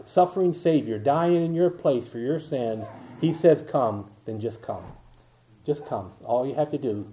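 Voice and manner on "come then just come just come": soft invitation. Real, not acted. Gentle altar call invitation.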